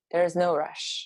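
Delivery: slow, unhurried reassurance; very calm. Retold or imitated. Mother in labor settles the room, calm and slow. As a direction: say it calmly, taking your time. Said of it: "I just very calmly say".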